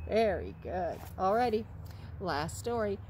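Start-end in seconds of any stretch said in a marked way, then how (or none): none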